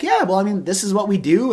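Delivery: downplay it, don't wag your tail; cool and casual. Retold or imitated. Recruiter staying calm when the prospect asks about hiring, unexcited. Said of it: "I don't wag my tail like a dog, like, getting all excited".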